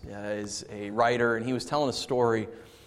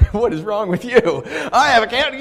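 mocking siblings; 10 semitones higher, 8 dB louder than usual. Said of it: "her siblings are just like".

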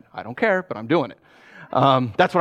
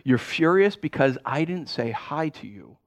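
calm reflective listening; 3 semitones lower, 4 dB quieter than usual. Retold or imitated. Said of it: "I said".

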